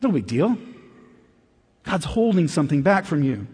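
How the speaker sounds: coaxing devil, slowed and hushed; lightly voiced serpent talking Eve into doubt; the devil in the garden, smooth and persuasive; sly tempter. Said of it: "he said".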